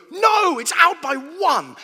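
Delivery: high, loud, slow cry of dismay; anguished shout. Retold or imitated. Gambler to the wheel, losing by one: despairing shout. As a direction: wail it as the last wheel misses.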